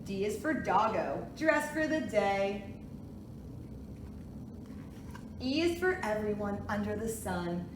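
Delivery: sing-song picture book reading; reading to a toddler. Acted. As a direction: read it gently to little kids. Reads alphabet book aloud.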